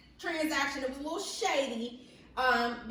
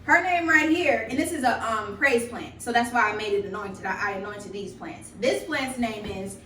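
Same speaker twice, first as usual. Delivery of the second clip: loud hype; 2 semitones higher, 9 dB louder than usual. Real, not acted. Loud animated house tour.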